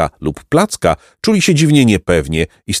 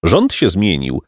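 melancholy. Acted. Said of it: "odrzekł melancholijnie hrabia".

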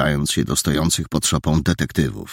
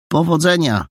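a touch of sadness in a higher goodbye; hint of sadness; 11 semitones higher than usual. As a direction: let a little sorrow slip into the farewell. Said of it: "z nutką smutku w głosie".

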